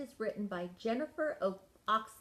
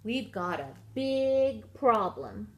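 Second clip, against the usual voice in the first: worried Peg; 6 dB louder, slower than usual. Acted.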